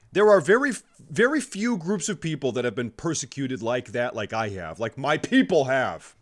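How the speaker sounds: loud, high indignant rant; mock outrage rant. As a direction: ham up fake outrage, yelling. Comedic left-handed persecution rant.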